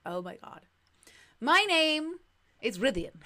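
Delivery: lightly voiced valley girl. Shown as a demonstration. Streamer trying out voice for Butts, valley girl. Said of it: "kind of voice".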